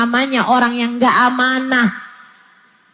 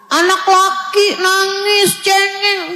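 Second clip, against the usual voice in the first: higher, sing-song taunt on cengeng; mocking sing-song; 4 semitones higher, slower than usual. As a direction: tease the boy in a sing-song chant. Quoting those who shame crying boys. (ejekan dengan nada bernyanyi)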